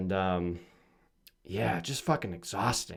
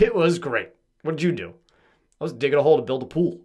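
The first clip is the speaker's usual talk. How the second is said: forced cheerful; 4 semitones higher, 7 dB louder than usual. Retold or imitated. Acted reply to people.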